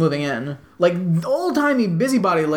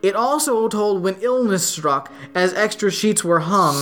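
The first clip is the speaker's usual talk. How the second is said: measured, lilting verse reading; poem recitation; slower than usual. Acted. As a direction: read it out in steady singsong metre. Reads a poem aloud.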